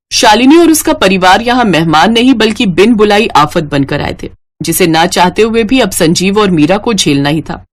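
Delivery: calm storyteller's narration; story narration. A narrator's reading. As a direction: narrate the family gently, like a tale. Narrator comments on the guests. (कहानी सुनाने वाला अंदाज़)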